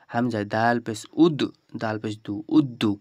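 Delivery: উদ্দু with a held doubled দ, built from উদ and দু; slow letter-by-letter উদ্দু; slow spelled drill. Shown as a demonstration. Teacher spelling উদ্দু slowly for tajweed learners. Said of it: "এভাবে করে চর্চা করুন".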